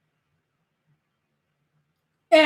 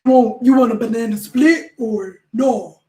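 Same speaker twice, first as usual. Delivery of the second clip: cheery server voice; 4 dB louder than usual. Retold or imitated. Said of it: "they all was just dying".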